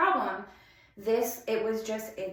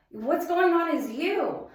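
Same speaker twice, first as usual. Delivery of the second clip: 1 retold sharp retort; 7 semitones higher, 5 dB louder than usual. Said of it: "And he was like".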